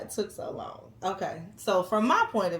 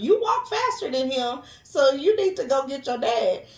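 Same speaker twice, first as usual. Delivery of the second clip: firm order; 6 semitones higher, 5 dB louder than usual. Retold or imitated. Wife ordering son to find dad.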